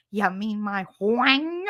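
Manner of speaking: slow, drawn-out puzzled Cage voice; Nicolas Cage impression. Quoting Nicolas Cage in Peggy Sue, slow baffled voice. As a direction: stretch it out, baffled. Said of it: "I will never hear him in any other voice".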